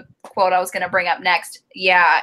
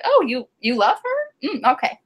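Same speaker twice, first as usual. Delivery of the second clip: higher, hesitant mock surprise; taken-aback family; 3 semitones higher than usual. Family hearing that he loves her, mildly surprised. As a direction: imitate relatives puzzled, then accepting it. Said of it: "family is just like".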